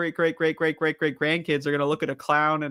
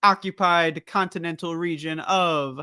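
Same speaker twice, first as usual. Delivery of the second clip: announcer voice. Pretend. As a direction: announce it like broadcast news. Mock official time announcement.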